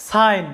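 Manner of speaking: সাইন said as sine, rhyming with fine; model word. Shown as a demonstration. Teacher presenting a new example word, clear. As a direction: say সাইন with a long ai and a silent g. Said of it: "একইভাবে এই শব্দটি দেখো".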